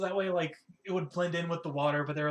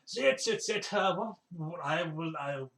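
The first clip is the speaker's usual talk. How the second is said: flustered host. Acted. Host welcoming guests to his kitchen, flustered. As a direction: stumble eagerly through the offer. Innkeeper character flusters, offering drinks.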